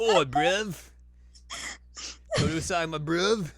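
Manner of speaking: chummy British bloke greeting a mate; mock British accent with a laugh in it; British Inuyasha. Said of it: "we get British Inuyasha".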